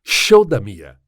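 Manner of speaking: announcer voice. Acted. Opening credits title announcement.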